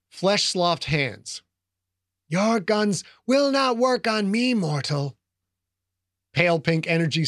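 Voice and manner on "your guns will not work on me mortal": ancient rasping undead king. Acted. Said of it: "The Lich raised its bony".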